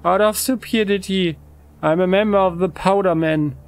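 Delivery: a hint of a howling lisp; lightly voiced sad convict; lispy howling convict. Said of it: "talks to us in a lispy, howling voice".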